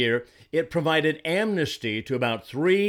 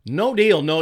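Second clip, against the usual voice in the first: emphatic no; 2 semitones higher, 5 dB louder than usual. Real, not acted. Commentator rejecting the border deal, shouted emphatic no. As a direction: slam the door on it.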